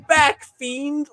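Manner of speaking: high, slow yell through laughter; laughing shout. Real, not acted. Laughing at comic villain.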